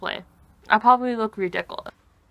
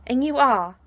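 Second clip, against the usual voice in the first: Draco Malfoy. Acted. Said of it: "I'm not Draco, I'm me".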